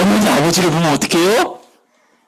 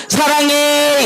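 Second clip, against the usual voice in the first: saying I love you; 7 semitones higher, much slower than usual. Acted. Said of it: "이렇게 하지 않고요".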